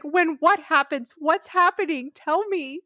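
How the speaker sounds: hammed-up worried questioning; mock panic. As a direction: act out anxious demands for answers. Acting out Xander's alarmed questions to Giles.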